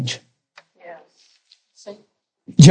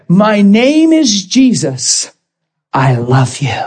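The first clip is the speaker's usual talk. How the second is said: gentle voice of Jesus; 2 semitones higher, slower than usual. Retold or imitated. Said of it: "he looked at me and said".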